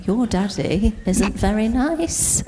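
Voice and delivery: put-on slow laughing baby talk to a cat; lightly voiced pet talk; cooing to the cat. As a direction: coo it to the cat through a laugh. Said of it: "put my cat in the middle and be like".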